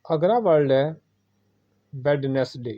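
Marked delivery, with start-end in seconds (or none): 1.9-2.7 वेडनेसडे with the middle d sounded, wed-nes-day; वेडनेसडे with a clear d after we; common wrong pronunciation. Shown as a demonstration. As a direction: say वेडनेसडे syllable by syllable. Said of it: "जो कि अक्सर लोग बोलते हैं".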